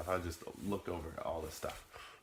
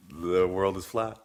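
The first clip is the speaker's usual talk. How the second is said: loud slow declaration; 8 dB louder, slower than usual. Acted. Vlogger announcing his conversion, loud and slow. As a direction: boom it out slowly, louder, like a revelation.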